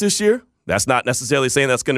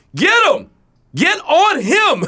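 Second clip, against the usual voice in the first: mock very high-pitched screaming; 4 dB louder than usual. Recalling watching a basketball inbound play, retelling screaming at the tv. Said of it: "I'm screaming at the TV".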